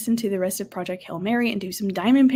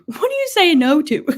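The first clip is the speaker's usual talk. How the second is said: laughing reread; 7 semitones higher, 6 dB louder than usual. Real, not acted. Third try, laughing.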